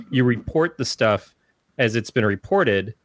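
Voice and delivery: usual speaking voice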